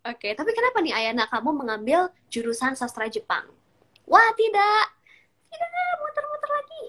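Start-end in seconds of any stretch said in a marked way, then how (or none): 4.1-6.8 a sudden high cry of dismay; oh no, it froze again; dismayed surprise. Real, not acted. Stream connection freezes again.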